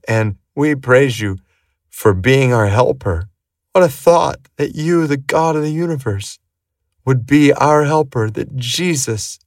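earnest, reverent prayer voice, calm and measured; heartfelt prayer. Acted. Preacher prays to God for the listeners' needs, reverent and earnest. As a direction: pray humbly on behalf of everyone listening.

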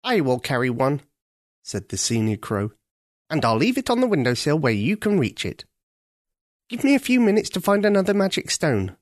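lightly voiced helpful crow; a brisk old bird taking charge; senior crow. Senior crow promising Ketcha the stone.

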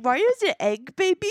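high, loud baffled question; confused question. Retold or imitated. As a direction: ask it totally baffled. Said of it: "I was so confused".

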